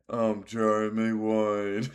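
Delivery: slow, mock British TV presenter intro; a light British accent, drawn out; imitating a British accent. Streamer quoting the fishing show host in a light British accent. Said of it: "best British accent".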